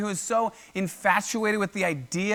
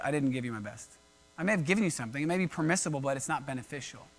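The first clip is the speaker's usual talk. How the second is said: low, soft, sheepish owning-up; subdued admission; 5 semitones lower, 7 dB quieter, faster than usual. Acted. Cain knowing he held back his best, subdued admission. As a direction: confess it quietly, dropping pitch and volume. Cain's inner admission to God.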